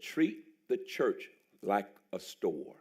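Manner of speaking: put-on slow, measured quote of the old pastor; slow quoted advice. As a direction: lay each word down slowly like a mentor.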